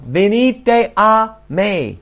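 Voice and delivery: high, drawn-out call. Acted. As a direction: call them in, stretching every word.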